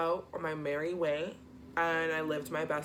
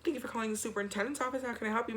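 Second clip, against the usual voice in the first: secretary voice; 4 semitones higher, much faster than usual. Retold or imitated. Voicing superintendent's secretary.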